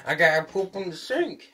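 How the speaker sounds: high, loud mock character voice; mocking put-on character voice; imitating a cartoon character's gag. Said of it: "where he's like".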